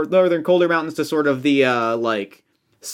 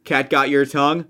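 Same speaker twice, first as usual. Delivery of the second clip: "Cat got your tongue" measured, rising at the end; just-right inflection. Shown as a demonstration. Caster getting the curse tones just right, "Cat got your tongue" lilting upward. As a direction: lift "tongue" like a sly question. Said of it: "it has to sound a bit like".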